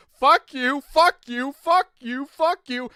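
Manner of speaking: loud, high repeated curse; retold cussing out. Retelling cursing at every friend in Uno, loud and high. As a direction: fire the curses off one after another. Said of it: "I literally went".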